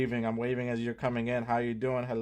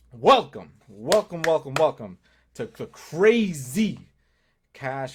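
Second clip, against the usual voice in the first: hyped welcome; 7 dB louder, slower than usual. Acted. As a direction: call out the welcome like a show host. Welcoming the live stream audience.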